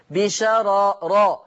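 بشرر drawn out very slowly, with each ra distinct; بشرر ببطء شديد; slow careful recitation. Shown as a demonstration. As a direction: spell out بشرر slowly, syllable by syllable. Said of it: "لاحظوا هذا اللفظ".

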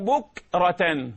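very slow بكرة with a clear ك. Shown as a demonstration. Teacher shows بكرة, very slow. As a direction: stretch بكرة. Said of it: "هكذا".

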